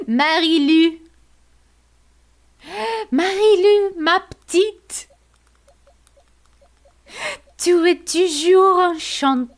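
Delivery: high, loud put-on French voice; French accent. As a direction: speak it like a French charmer. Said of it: "Why do I try to speak French?".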